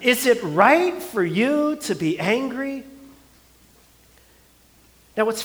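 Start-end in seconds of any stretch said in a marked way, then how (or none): 0.0-2.9 mock disbelief, jumping way up on really; God gently mocking Jonah, amused disbelief; incredulous God. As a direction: play God raising an eyebrow, half laughing. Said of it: "God looks at Jonah and he's like".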